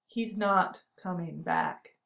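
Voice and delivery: every word pressed, slow; slow, each word weighted; emphasizing each word. A narrator's reading. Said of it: "emphasizing each word".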